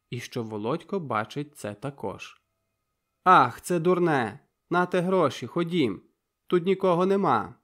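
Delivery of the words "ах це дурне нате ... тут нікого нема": loud, broken, excited exclamation; agitated outburst. A narrator's reading. Zhenya flustered after confessing love, agitated outburst. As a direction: blurt it out, flustered. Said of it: "викрикнула вона вривно і схвильовано".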